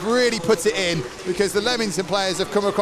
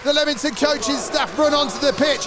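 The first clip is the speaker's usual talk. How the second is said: live play-by-play; 3 semitones higher than usual. Acted. Live match commentary, final whistle.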